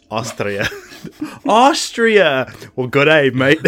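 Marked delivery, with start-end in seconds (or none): 1.5-3.6 hammed-up comic film quote; Jim Carrey. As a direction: burst out like a delighted dimwit. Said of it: "It sounds like Jim Carrey".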